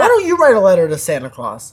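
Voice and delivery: loud mimicry of the co-host; obnoxious copy of someone's asking; mocking imitation. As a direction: parrot the question back mockingly. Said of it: "saying it like that, like an asshole".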